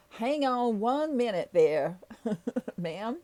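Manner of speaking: slow mock Texan drawl; Texan accent. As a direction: stall in a put-on Texan accent. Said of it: "I can do a Texan accent".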